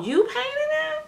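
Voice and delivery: mock high-pitched, drawn-out questions; imitating her daughter. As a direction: tease like a daughter admiring the work. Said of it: "She told me something".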